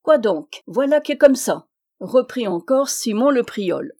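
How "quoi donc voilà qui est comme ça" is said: Simon's emphatic storyteller voice, a little raised; storyteller's insistence. Acted. Old teller Simon to his listeners, raised and emphatic. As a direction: insist it's true, pressing the point.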